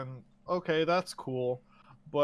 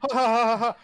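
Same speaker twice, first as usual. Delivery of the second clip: a hammed-up villain's ha ha ha, louder; mock sinister laugh; 7 semitones higher, 12 dB louder, faster than usual. Walken's character laughing before pushing her out, mock sinister chuckle. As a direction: chuckle menacingly before the shove, mildly mocking.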